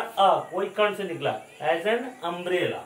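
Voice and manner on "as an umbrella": As an umbrella with weight on an, said slowly; stress on an. Shown as a demonstration. Teacher explaining the u sound, slow stress. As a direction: lean on an so they hear the vowel. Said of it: "यू का pronunciation क्या होता है".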